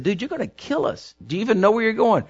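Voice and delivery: fast, jittery plea to a reckless driver; mock panicked passenger. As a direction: passenger on the car speeding, mock alarmed. Speeding car, frightened passenger.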